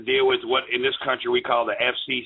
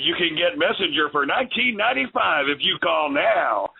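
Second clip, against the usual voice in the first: upbeat, higher radio announcer pitch; 5 semitones higher than usual. Pretend. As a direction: sell it like a late-night radio spot. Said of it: "right now you sounded like a good radio, uh, like, uh, jingle".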